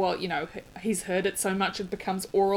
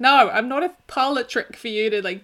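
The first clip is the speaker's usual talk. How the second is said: mock exasperation; 3 semitones higher, 6 dB louder than usual. Her to people asking for accent tricks, mock exasperated. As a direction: push back in exasperation, acted out.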